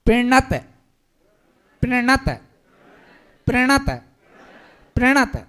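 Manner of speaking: प्रणत with clear प्र cluster; model word. Shown as a demonstration. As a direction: repeat प्रणत crisply for students. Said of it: "देखो एक प्रणत होते हैं". (प्रणत को साफ़ प्र के साथ दोहराना)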